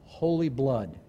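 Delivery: low, soft, with long pauses; hushed solemnity. Real, not acted. Preacher dwelling on Christ's sacrifice before the congregation, hushed and solemn. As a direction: let each phrase sink in, quiet and weighty.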